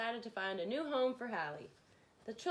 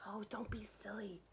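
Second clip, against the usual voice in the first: breathy whisper; 9 dB quieter than usual. Acted. Burglar whispering to his partner, dismissive. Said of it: "whispered the other burglar".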